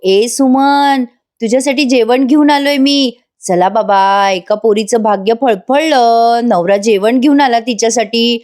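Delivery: a hint of a smug fake-caring husband; mock-sweet husband. Nagraj bringing food to his wife, mock sweet.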